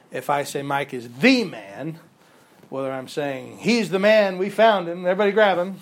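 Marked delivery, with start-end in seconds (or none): 3.6-5.8 loud excited "we found him"; excited shout. Shown as a demonstration. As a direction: call it out like a found suspect. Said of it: "or if I say".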